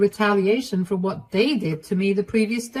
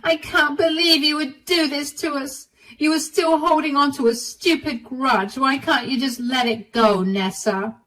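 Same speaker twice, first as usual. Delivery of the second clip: screaming; 7 semitones higher than usual. Acted. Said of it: "they started to scream at me again".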